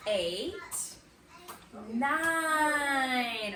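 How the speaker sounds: slow count, long pauses, each number lifting; counting together. Shown as a demonstration. Teacher counting sticks with the class, slow and spaced out. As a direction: count along one by one, stretching the final number. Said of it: "Let's count together".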